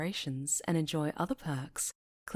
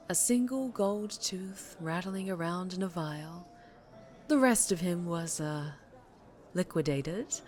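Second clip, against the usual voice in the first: a lady crime boss, lightly voiced, silky and sure; smooth mob boss. Mob boss bidding her old employee goodbye, silky and sure. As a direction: purr it like she owns the room.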